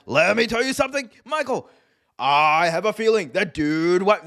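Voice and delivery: a hint of a grave commentator building up; Excalibur impression. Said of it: "And Excalibur's like".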